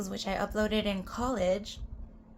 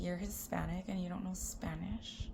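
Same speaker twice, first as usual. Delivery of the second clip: mocking people; 2 semitones lower, 8 dB quieter than usual. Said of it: "when people are like".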